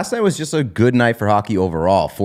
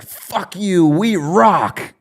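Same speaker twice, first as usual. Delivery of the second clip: higher, brash mock fan boast; mock riled-up fan; 8 semitones higher, much slower than usual. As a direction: taunt like a pumped-up fan. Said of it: "being like".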